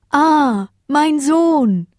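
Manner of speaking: loud, high cry of recognition; overjoyed father. A narrator's reading. The mayor spots his rescued son, overjoyed. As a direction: cry out high, drawing out the last word.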